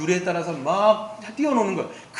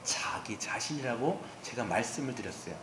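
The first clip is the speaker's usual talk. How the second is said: near-whisper, much softer and lower; hushed; 8 semitones lower, 14 dB quieter than usual. Real, not acted. Preacher answering his question about idols, hushed. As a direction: drop right down to a whispered answer.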